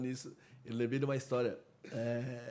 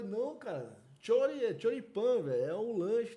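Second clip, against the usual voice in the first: retold protest; 7 semitones higher, 4 dB louder than usual. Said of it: "Aí eu falei".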